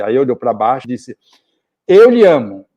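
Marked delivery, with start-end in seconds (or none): 1.9-2.7 "Eu lhe amo" pushed out loud and a bit higher, all at once; blurted confession. Retold or imitated. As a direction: blurt "Eu lhe amo" as a nervous father finally saying it. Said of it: "Quer dizer, "Eu lhe amo", coloquialmente cabe".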